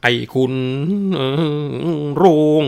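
high, loud, slow booming of a possessing spirit; hammed-up fake possession, swaying and bellowing; possessed spirit voice. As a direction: rant like a demon has seized you. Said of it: "ทำออกยักษ์ทีเดียว".

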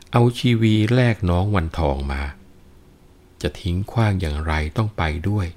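measured Thai verse reading; lilting storyteller's recital of a classic poem; poetry recitation. A narrator's reading. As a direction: read it as rhymed verse, phrase by phrase.

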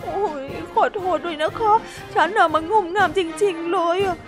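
high, tearful and defeated; sorry, wanting to vanish; high teary resignation; dejected apology. Acted. Hippo gives up, dejected.

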